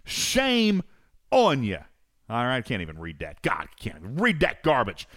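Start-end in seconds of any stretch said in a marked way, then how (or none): 0.0-1.8 drawn-out teasing shame; mock scolding. Host mock-scolds Snake Eyes for a comment. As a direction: stretch out shame playfully.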